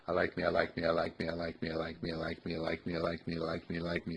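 low, soft chanting of the affirmation; soft repeated mantra. Shown as a demonstration. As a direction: murmur it over and over to yourself. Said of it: "when you repeat them".

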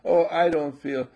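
lightly voiced moaning complainer; mock a lazy whine about getting up; whiny lazy self.

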